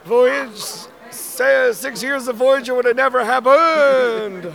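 hoarse, losing voice; strained, worn-out voice; raspy whisper. Real, not acted. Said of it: "I'm losing my voice".

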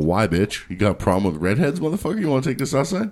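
hammed-up confrontational challenge; mock challenge. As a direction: pick a pretend fight, pitch rising. Acting out a mock fight challenge.

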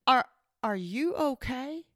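soft, slow, hesitant imitation of the technician; gentle concern. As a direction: ask it carefully, as the kind technician. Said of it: "And he's like".

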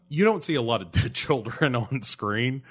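talking through an inappropriate laugh; real laugh breaking into speech. Real, not acted. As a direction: let a guilty laugh slip into the words. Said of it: "I'm sorry to laugh".

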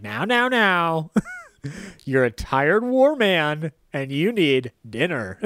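slow, soothing reassurance; calm him down gently. Retold or imitated. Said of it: "he's really trying to be like".

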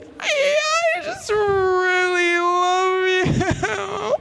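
very high, drawn-out tearful wail; mock sobbing. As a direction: bawl out each word slowly like an overwhelmed fan. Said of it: "sobbing still".

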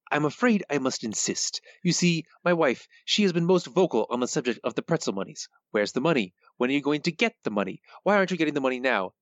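half-hearted mobster voice, rising to quick demands; a hint of Fat Tony; Fat Tony impression. Shown as a demonstration. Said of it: "My impression? It's terrible".

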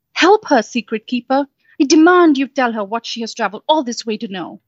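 mildly voiced imperious fairy demand. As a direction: order the wall to answer.

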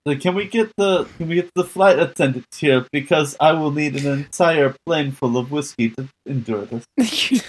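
a touch of stagy actor drama; lightly voiced theater kid delivery; theatrical voice. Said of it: "why are you talking like that? ... theater club".

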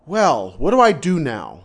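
loud, slow exasperated question; at a loss. Retold or imitated. Teacher recalling being stuck with an unwanted student, at a loss. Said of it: "I really stood there like".

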